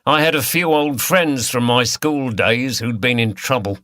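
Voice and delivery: lightly voiced Cockney villain; a hint of Cockney, harsh and taunting; Cockney accent. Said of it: "He spoke in a Cockney accent".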